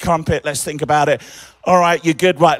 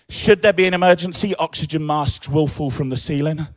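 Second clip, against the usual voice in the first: flight attendant announcement. Pretend. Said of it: "that's my other part-time job".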